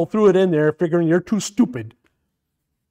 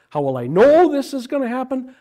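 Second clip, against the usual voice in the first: contrasting reading; 7 semitones higher than usual. Shown as a demonstration. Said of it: "As opposed to Mary saying".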